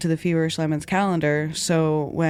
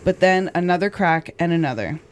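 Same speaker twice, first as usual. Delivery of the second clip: measured true-crime podcast read; narrating a crime story from a script; scripted story narration. A narrator's reading. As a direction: read the account clearly and deliberately.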